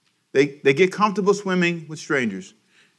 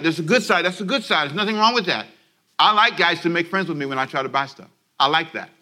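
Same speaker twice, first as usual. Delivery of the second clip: usual speaking voice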